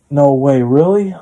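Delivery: surprised disbelief. Retold or imitated. Friend hears of cheating.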